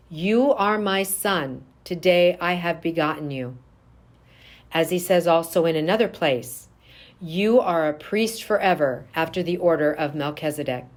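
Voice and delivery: ordinary talk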